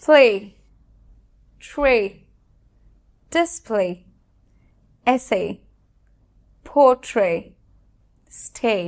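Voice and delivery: each word said clearly as a model; spaced model words, a pause after each; model pronunciations. Shown as a demonstration. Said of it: "যেমন".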